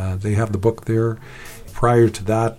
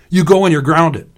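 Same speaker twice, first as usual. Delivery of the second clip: loud, higher-pitched scolding; shouted threat; 7 semitones higher, 7 dB louder than usual. A narrator's reading. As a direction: lay down the law to a kid brother. Leon shouting in quarrel.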